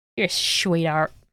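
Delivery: put-on old woman impression. Answering a kind remark, the speaker slips into imitating their grandmother. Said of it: "I just turned into my grandmother then".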